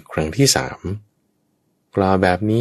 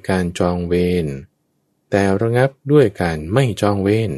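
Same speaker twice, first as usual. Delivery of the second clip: shouting to his son; 5 semitones higher than usual. Acted. Father calls out to his son in the crowd, high shout. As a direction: cry out across the crowd to the son. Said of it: "พอเห็นลูกแล้วก็ตะโกนขึ้นเลย".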